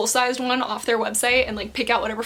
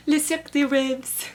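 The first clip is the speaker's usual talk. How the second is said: badly attempted French accent; amateur French accent; terrible French accent; 3 semitones higher than usual. Shown as a demonstration. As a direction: have a clumsy go at French pronunciation. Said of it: "my terrible, terrible French accent".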